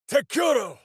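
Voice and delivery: very high, ringing war cry of a spell; spell shout. Acted. Minsk casting in combat, shouting the incantation. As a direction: fling the word out as a battle cry.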